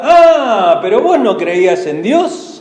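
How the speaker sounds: lightly voiced sneering taunt; mocking taunt. Unbelievers mocking a believer in need, mild sneering taunt. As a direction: jeer at the believer who asked for help. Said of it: "Cuando uno a veces está pidiendo ayuda".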